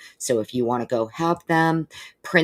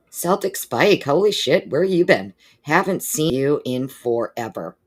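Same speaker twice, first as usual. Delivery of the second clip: excited greeting; 3 semitones higher, 3 dB louder than usual. Real, not acted. Host greets a long-missing viewer, excited.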